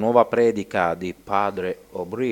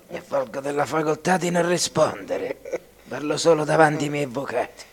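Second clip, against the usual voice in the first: high put-on stiff legal voice; pompous formal voice; 9 semitones higher, 3 dB louder, faster than usual. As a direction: deliver it like a defendant in court. Joking about lawyers and silence.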